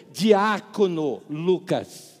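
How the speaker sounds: slow, emphatic correction; 1 slow insistence. Retold or imitated. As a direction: spell out the title slowly. Deacon insists slowly.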